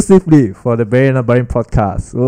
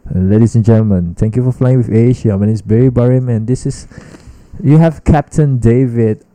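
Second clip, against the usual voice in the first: flight attendant announcement. Retold or imitated. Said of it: "they wanted me to read".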